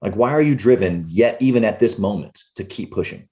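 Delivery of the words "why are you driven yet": normal talking voice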